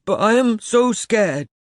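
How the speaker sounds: put-on high, loud, weeping boy voice; hoarse, tearful confession. A narrator's reading. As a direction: wail it slowly through the tears. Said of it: "he said, his voice hoarse".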